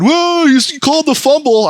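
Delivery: high, mock-astonished cheer; amazed crowd. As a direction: imitate friends gasping in amazement. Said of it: "Everyone went".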